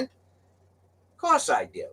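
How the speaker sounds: slow, drawn-out smug reply; cocky. Retold or imitated. Trucker assuring the dock guy he can drive it, slow and smug. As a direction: lay on the confidence.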